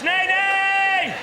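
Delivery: high, drawn-out cry of refusal; emphatic refusal. Acted. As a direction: call it out high, stretching the last word. Catchphrase refusal shouted at the end.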